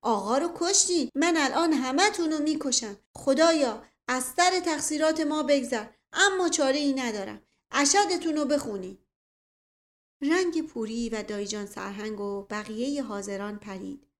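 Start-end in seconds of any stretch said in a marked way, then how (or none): 0.0-9.0 high, loud, overwrought death threat; threatening shout. A narrator's reading. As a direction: threaten them all while begging God's forgiveness. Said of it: "فریاد زد". (فریاد تهدید با تفنگ)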